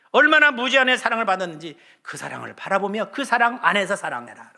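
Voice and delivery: high, loud, rising sermon climax; a pastor pleading with the congregation, loud and high; impassioned preaching. Acted. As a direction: preach it out with full fervor. Preaching at full force.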